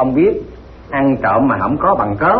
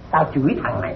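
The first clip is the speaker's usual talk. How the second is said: softly said, almost to oneself; understated, quiet stage jab; sly comic admission; 3 semitones lower, 7 dB quieter, faster than usual. Acted. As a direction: drop the volume for a sly dig. Comic denial, points out target.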